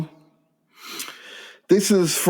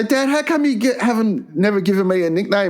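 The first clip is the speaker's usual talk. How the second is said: put-on pleading kid; 3 semitones higher than usual. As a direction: rush the question like a hurt boy. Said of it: "I say".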